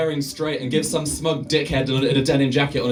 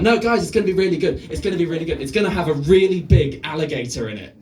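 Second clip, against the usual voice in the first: eager pitch; 2 semitones higher than usual. Retold or imitated. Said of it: "And Ishiro Honda's like".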